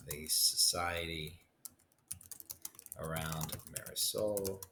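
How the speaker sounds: slow, fading model sentence. Shown as a demonstration. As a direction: dictate the example, trailing off at the end. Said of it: "So you might say something like".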